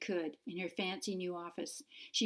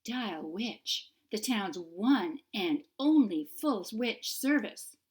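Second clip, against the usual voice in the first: louder, slower, upbeat sales pitch; bright rising "Dial which?" for a fresh recording; friendlier new greeting; 3 semitones higher, 6 dB louder, slower than usual. Acted. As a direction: sell the shop warmly on the voicemail. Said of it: "Jane started a new recording".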